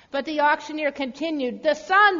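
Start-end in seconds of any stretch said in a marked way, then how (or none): 1.6-2.2 loud, higher call. A narrator's reading. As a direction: auctioneer announcing to the room. Auctioneer calling the bid.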